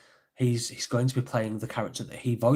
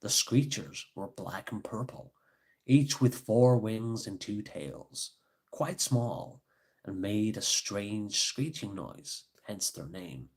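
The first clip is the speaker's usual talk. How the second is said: put-on American accent. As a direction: read it in an American storyteller's accent. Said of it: "when I did the American accent".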